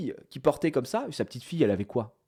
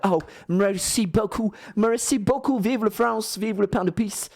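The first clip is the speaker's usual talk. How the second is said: mock American accent; 4 semitones higher, slower than usual. Grateful American woman thanking them.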